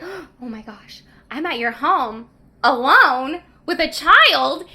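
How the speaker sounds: hushed start swelling to loud, slow dismay; mock freak-out. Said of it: "freaks out 'cause he's like".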